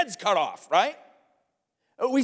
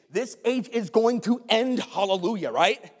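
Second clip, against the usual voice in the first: building emphatic preaching; rising sermon fervor. Acted. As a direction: lift the room toward the climax. Preaching crescendo to congregation.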